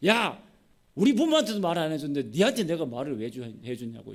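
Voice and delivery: loud acted flare-up, then dropping; mock-furious husband; sudden angry outburst. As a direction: burst out at a nagging wife, then subside. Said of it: "삼손이 막 버럭 화를 냅니다".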